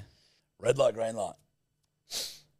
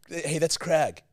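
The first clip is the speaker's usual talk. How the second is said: American accent mock; 7 semitones higher, 5 dB louder, slower than usual. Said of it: "the way Americans pronounce the name Craig".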